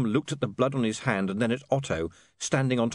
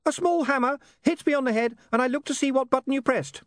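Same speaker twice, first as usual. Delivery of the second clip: giggly sneering imp; 3 dB louder than usual. Acted. Imp explaining.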